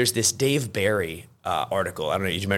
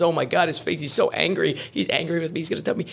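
put-on panicked girlfriend; 8 semitones higher than usual. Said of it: "she looks at his face and says".

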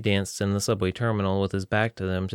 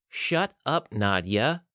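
yell; 2 semitones higher, much slower than usual. Acted. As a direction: cut her off sharply. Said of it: "Kayla yelled".

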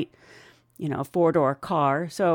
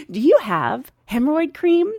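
higher, louder comic customer question; hammed-up, raised-pitch request; mock passenger request; 7 semitones higher, 5 dB louder than usual. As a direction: ask it brightly as a demanding passenger. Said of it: "replaying what she just did".

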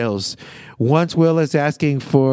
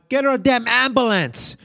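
pitched up, a retold frantic yell for help; mock scream; 9 semitones higher than usual. Recapping Will yelling for help in the limo, mock scream. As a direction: imitate Will panicking for an ambulance. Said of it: "Will screaming for nine one one".

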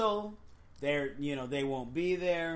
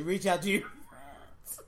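crying with laughter; slower than usual. Real, not acted. Laughing fit while repeating advice.

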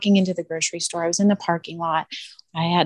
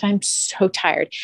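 weary retold; much slower than usual. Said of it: "on the verge of tears".

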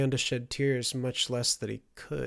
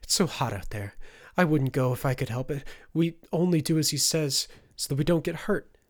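fearful plea, climbing higher and louder; whimper, building in distress; 4 semitones higher, 5 dB louder than usual. A narrator's reading. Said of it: "Marcus whimpered".

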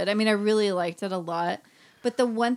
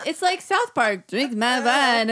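mock French, slow and stretched, with a laugh; lightly mock a cartoon French drawl; French accent; 3 semitones higher, 6 dB louder, slower than usual. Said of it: "sounded French".

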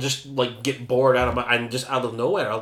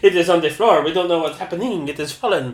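laughing mock drama; 4 semitones higher, 7 dB louder than usual. Joking about the fallen pun.

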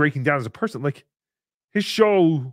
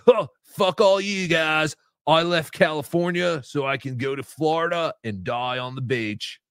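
put-on laid-back beach-bum voice. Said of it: "Chad does not talk like a surfer".

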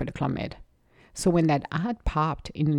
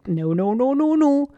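rising to a high, loud no, no; mock panic, climbing higher on each no; panicked disbelief; 8 semitones higher, 3 dB louder than usual. Retelling her panic at the life-changing call, pitched high.

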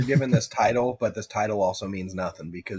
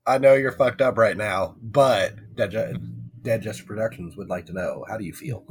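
pushy reporter; 6 dB louder than usual. Pretend. Mock reporter at car crash.

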